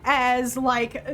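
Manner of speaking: ordinary talk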